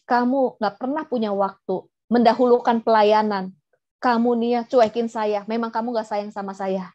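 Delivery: mildly accusing wife; lightly acted reproach at a husband, brisk beside the gentle version; provokatif. Shown as a demonstration. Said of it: "Cara yang provokatif". (menuduh suami, sedikit provokatif)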